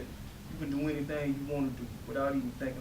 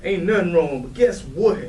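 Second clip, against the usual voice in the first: excited; 9 dB louder than usual. Acted. Bursting with big news.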